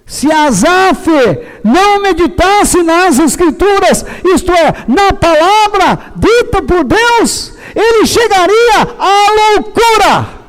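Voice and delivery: emotional, roaring voice in a preaching style. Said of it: "uns bravejamentos desse".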